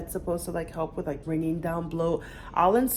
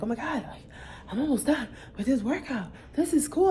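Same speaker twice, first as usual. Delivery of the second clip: higher, bubbly replay of the moment; excited; 6 semitones higher than usual. Retold or imitated. A mom retelling her workout with excited glee. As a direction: relive the thrill of almost finishing. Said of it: "I was feeling so excited".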